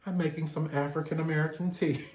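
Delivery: fast, proud mock declaration; mock proud announcement. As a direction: brag about your tea, quick and pleased. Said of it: "I'm gonna be like".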